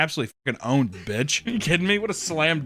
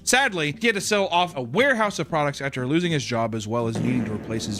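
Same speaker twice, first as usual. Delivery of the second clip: emphatic explainer voiceover; scripted narration. A narrator's reading. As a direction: read it out with punched key words.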